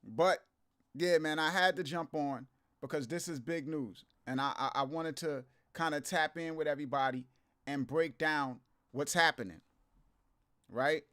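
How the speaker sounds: under the weather, tired voice; feeling sick. Real, not acted. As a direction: talk while feeling ill. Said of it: "I'm a bit under the weather today".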